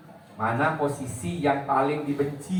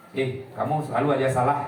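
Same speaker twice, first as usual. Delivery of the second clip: sharp blaming; 3 semitones lower than usual. Shown as a demonstration. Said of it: "coba giniin".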